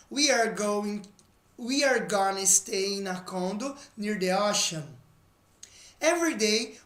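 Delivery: slow, careful English reading for learners; teacher reading a sample text; reading a text aloud. Shown as a demonstration. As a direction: read it clearly as a model for students. Reads the lesson text aloud.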